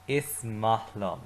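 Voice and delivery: slow, careful model line; teacher modelling slowly; slow model phrase. Shown as a demonstration. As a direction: say it slowly for the class to repeat. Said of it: "say it with me".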